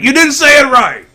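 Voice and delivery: high, loud, lightly voiced know-it-all commenter; mock viewer correction. Streamer mimicking a viewer correcting his pronunciation, mock know-it-all. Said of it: "I'm sure I'll get corrected".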